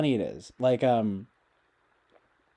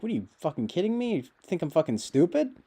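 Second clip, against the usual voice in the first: mock exasperation; 5 semitones higher, faster than usual. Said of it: "It's like".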